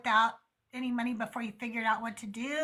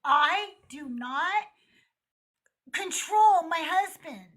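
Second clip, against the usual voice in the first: exasperated insistence; 4 semitones higher than usual. Retold or imitated. Wife insisting to in-laws she doesn't control her husband, exasperated. Retells exasperated protest to relatives.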